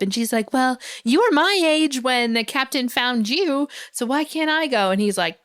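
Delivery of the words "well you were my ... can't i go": higher-pitched imitation of a protesting child; lightly voiced child's challenge; arguing kid. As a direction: argue back like a spunky kid. Voices Maisie arguing back.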